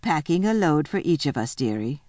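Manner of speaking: mild, unhurried coolness; very coolly. Acted. Missus Beaver answers Susan, mildly cool and unruffled. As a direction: let it drop calmly at the end. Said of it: "said Missus Beaver very coolly".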